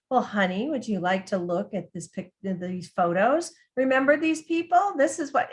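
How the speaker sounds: mock a caregiver cooing at an adult like a child; sing-songy caregiver. Caregiver talking down to her husband in a mild sing-song. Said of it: "her tone of voice was".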